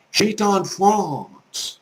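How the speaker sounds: slow, drawn-out French accent. Shown as a demonstration. Teacher correcting Southern "France" to learners, French accent. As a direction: get right into the French accent. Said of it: "try to actually get into their accent".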